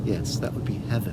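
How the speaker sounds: put-on teacher gently answering the child; said softly. A narrator's reading. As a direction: say it gently and wistfully. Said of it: "Miss Honey said softly".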